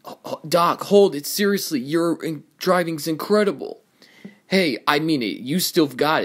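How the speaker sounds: high-pitched, eager outburst; excited admiration. Acted. Young racer praising Doc's incredible driving, excitedly. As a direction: gush with amazement. Amazed fan stops Doc to praise him.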